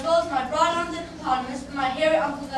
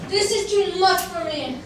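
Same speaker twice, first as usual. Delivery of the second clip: louder, slow nasal complaint; speaking through his nose; 4 semitones higher, 6 dB louder, slower than usual. Acted. Elephant's child stretched by the crocodile, nasal groan. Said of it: "speaking through his nose".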